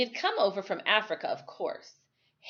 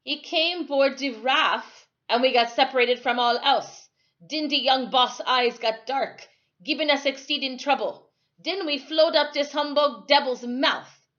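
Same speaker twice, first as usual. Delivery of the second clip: put-on agitated old islander; 5 semitones higher, 6 dB louder than usual. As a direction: tell the tale with rising alarm, louder. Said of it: "Timothy said".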